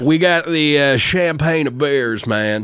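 lightly put-on drawl, slow; a touch of a put-on accent. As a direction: lean lazily into a mock accent. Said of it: "I love doing that accent".

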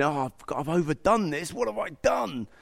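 mock remorse, rising on the last question; imagined regret. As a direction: act out a touch of dismay at oneself. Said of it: "They're not tears of regret".

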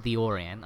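"the Orient" as English "OR-ee-ent", no French accent; deliberately un-French "Orient"; English pronunciation. Shown as a demonstration. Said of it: "I'm not gonna try and say it in, like, a French accent".

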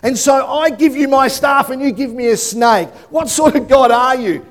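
indignant, quick protest; mock exasperated Moses. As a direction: rant at God like he's lost his mind. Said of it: "would have been like".

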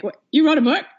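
high, disbelieving what; mock shock at mom writing a book; teen surprised, rising pitch; incredulous daughter. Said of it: "even my own daughter is like".

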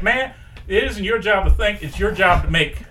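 lightly voiced boss brushing off the worry; Craig Robinson voice. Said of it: "his boss, who I want to be like, uh, Craig, Craig Robinson".

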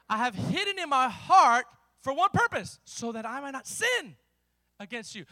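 phrase-by-phrase verse, punched then dropping; deliberate, weighty scripture reading; slow emphatic reading. Real, not acted. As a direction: set each phrase apart for the congregation. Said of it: "I'm gonna read that slow".

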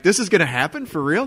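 retold giddy amazement; jumping for joy. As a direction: ask it as if too good to be true. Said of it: "I'm, like, jumping for joy".

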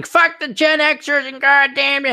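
high, slow mocking young-hothead voice; angry Gen Zer. Future Gen Zer cursing Gen Xers, high mock voice. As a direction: sneer it like a bratty kid. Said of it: "angry Gen Zers saying".

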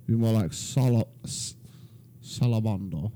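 attempted British salamander; a badly faked British accent. Shown as a demonstration. Player showing co-host his British salamander, mock British accent. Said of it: "I'm doing British".

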